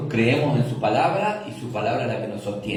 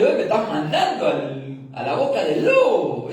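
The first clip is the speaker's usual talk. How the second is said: lightly voiced, laughing Ananías protesting; a hint of a scared Ananías, half laughing; voicing Ananías; 3 dB louder than usual. Ananías protesting to the Lord, voiced with laughter. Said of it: "Ahí Ananías dice".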